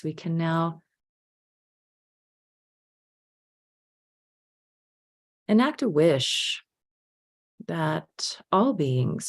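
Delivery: unhurried meditation guide, with long pauses; guided meditation. Real, not acted. Teacher leading a group to remember being helped, unhurried guided meditation. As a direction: gently lead the reflection, leaving space between phrases.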